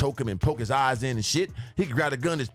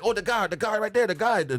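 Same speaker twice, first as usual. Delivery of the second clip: imitating the cashier lady; 8 semitones higher than usual. Cashier lady points out suspect.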